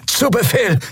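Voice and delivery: high strained creature groan; groaning lizard creature. Acted. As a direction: grunt it out as the reptile officer. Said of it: "ächzte Quailor". (ächzende hohe Echsenstimme)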